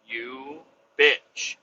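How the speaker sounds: high, loud mock indignation; mock outrage. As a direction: pretend fury at a coworker. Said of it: "I was like".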